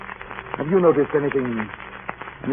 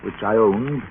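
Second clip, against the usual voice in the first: reflective first-person narration of a seafaring tale; thoughtful radio-drama narration, unhurried; story narration. A narrator's reading. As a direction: tell it like a captain remembering. Captain narrates his story over music.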